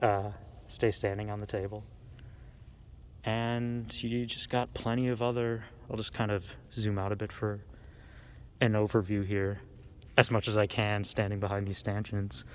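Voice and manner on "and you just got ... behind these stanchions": talking through a face mask, muffled. Real, not acted. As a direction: speak as if behind a mask. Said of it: "hear me all right with the mask on".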